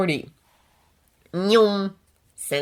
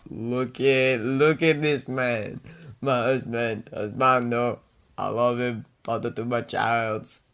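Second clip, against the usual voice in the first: put-on drunk; 5 semitones lower, 4 dB quieter than usual. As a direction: gush like a drunk fan. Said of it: "I'm so drunk right now".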